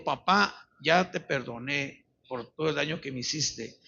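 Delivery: low, soft, halting forgiveness; hushed, tender retelling; retold forgiveness. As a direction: imitate a daughter quietly forgiving. Daughter forgives her father at table.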